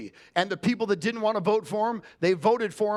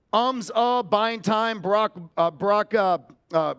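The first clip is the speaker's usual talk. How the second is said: slow, halting, louder ums and uhs; stumbling over fillers; 4 dB louder, much slower than usual. Shown as a demonstration. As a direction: trip over the fillers on purpose. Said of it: "Brock pause and Elon's ums and ahs".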